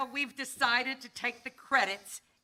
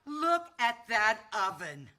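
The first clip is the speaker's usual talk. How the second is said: impressed; 5 dB louder than usual. Acted. Buyer marvels at huge oven.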